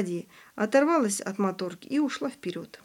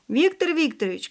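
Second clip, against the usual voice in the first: higher-pitched mild shout; calling out; 8 semitones higher, 4 dB louder than usual. A narrator's reading. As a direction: call out the name to get attention. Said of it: "крикнул Ваня". (окликая, повыше)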